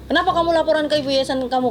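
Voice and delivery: mildly angry retold question; retold anger. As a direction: act out the boss demanding answers. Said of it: "dia marah lah di situ".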